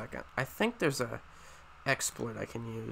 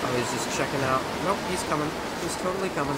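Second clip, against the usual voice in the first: panicked; 3 semitones higher, 5 dB louder than usual. Real, not acted. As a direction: yell it as the wolf closes in. Wolf closing in on him.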